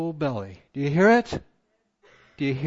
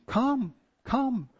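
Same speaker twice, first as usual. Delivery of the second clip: pleading; 7 semitones higher than usual. Acted. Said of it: "The Lord is pleading".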